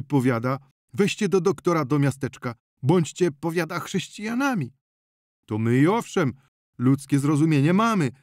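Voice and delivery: a flustered farmer gabbling out the tale; excited peasant telling. Acted. Peasant telling the healer about the crash, agitated rustic voice.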